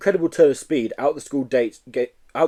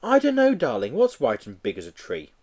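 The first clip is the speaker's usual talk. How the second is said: put-on mother humouring child. Mother answers her little boy.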